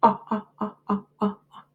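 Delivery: repeated short ah sounds; vowel sound drill. Shown as a demonstration. Teacher drilling the vowel sound for students, steady beats. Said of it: "Your word is got".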